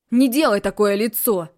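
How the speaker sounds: loud mocking echo of her words; mimicking her. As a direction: parrot her back at her. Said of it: "повторяет он за мной".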